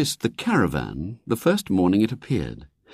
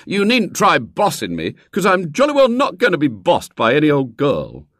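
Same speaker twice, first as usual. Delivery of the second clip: cocky schoolboy brag; a boy putting on airs; swaggering boy; 8 semitones higher, 5 dB louder than usual. A narrator's reading. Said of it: "with a swaggering laugh".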